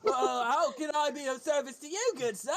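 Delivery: mild mock courtesy from the guard; lightly voiced guard. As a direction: play the guard as eager to please. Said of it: "And he's just like".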